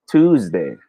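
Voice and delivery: "Tuesday" built from Tu plus day; "Tuesday" with a clean t onset; tooz-day. Shown as a demonstration. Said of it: "It's pronounced as Tuesday".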